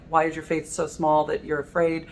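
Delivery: a gentle scolding question, not harsh; mild rebuke. Shown as a demonstration. Preacher voicing Jesus scolding his fearful disciples, mild rebuke. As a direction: lightly chide the disciples for their fear. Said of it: "It can be heard as a rebuke".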